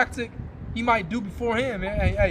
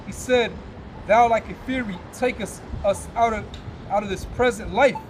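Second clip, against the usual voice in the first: scripture reading. Acted. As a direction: intone the verses like a preacher at the pulpit. Reads scripture aloud.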